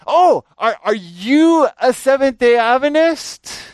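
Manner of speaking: imitating a smart aleck kid springing the trap; mocking smart aleck. High school kid taunting the preacher in the park, mocking high voice.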